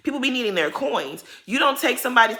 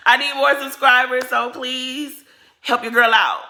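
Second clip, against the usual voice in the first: laughing through it, higher and louder; laughing plea; 5 semitones higher, 6 dB louder than usual. Real, not acted. Vlogger begging viewers to subscribe, laughing. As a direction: giggle while begging for subscribers.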